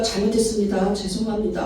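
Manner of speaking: low, soft, cowed apology; meek apology. Acted. Beggar giving in to the scolding crowd, meek and soft. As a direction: shrink back and apologise quietly and low. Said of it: "초라한 모습으로 가지 않아요".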